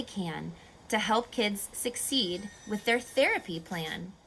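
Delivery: lively storybook read-aloud; reading to children. Acted. Teacher reading a rhyming story to kids, lively. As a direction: read the rhymes to a class, bouncy and clear.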